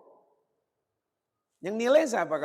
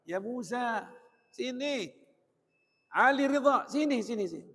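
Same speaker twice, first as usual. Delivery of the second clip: put-on higher-pitched fond call to a child; affectionate calling; 6 semitones higher than usual. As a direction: call your child over lovingly, voice lifted. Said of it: "manggil anaknya dengan penuh mesra banget".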